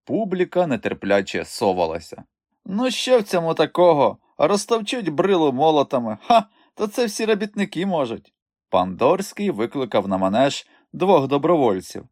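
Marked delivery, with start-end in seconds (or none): 2.6-8.3 high, mocking doubt from the crowd; a spectator sneering at the strongman act; scoffing spectator. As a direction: scoff as an unimpressed onlooker.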